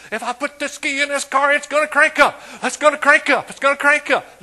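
high, loud, hammed-up boast; mock shouting. Preacher mocks a car owner yelling from its roof. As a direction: yell it like he's showing off. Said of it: "Stand up on top of the car".

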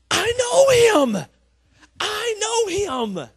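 high, slow, squealing elf joy; excited squeal. Retold or imitated. Elf in a store spotting Santa, squealing with joy. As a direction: shriek it like a giddy overgrown elf.

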